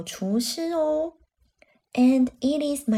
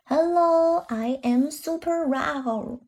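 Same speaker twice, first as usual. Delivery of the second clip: a small dinosaur proudly introducing itself; tiny squeaky trying to roar; 3 semitones higher, slower than usual. Acted. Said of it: "那小恐龙说啦". (小恐龙骄傲地自我介绍)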